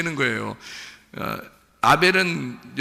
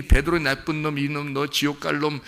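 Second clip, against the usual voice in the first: mock scolding Jesus. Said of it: "이렇게 얘기한 게 아니에요".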